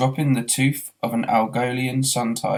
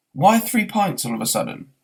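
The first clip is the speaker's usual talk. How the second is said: higher, puzzled question; baffled; 6 semitones higher, 3 dB louder than usual. Acted. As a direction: demand an explanation. Arthur baffled.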